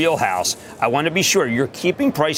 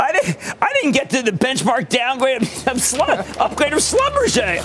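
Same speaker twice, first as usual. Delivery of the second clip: exasperated; 10 semitones higher than usual. Real, not acted. Host protesting he ran out of time.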